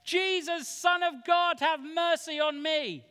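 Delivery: high, loud cry for mercy; desperate shout. A narrator's reading. Blind beggar crying out to Jesus as he passes, shouting. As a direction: shout out, pleading to be heard. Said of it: "he began to shout".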